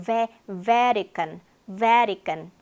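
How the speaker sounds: Vatican as "VE-ri-kan", first syllable stressed. Shown as a demonstration. Teacher modelling English, Vatican stressed on the first syllable. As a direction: hit the start of Vatican and toss away the rest. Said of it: "강세가 베에 있기 때문에".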